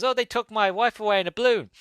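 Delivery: high-pitched mock-frantic caller; panicked caller impression. Somebody phoning up about his wife, hammed-up high voice. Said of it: "somebody phones up and he goes".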